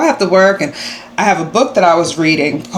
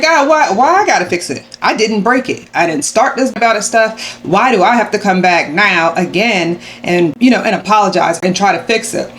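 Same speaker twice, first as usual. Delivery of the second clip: complaining to God. Retold or imitated. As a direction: whine up to God, then settle. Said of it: "I'm talking to God like".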